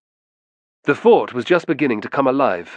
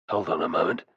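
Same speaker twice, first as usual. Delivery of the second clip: bristling; 5 semitones lower, 4 dB quieter, faster than usual. A narrator's reading. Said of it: "bristled Brennus".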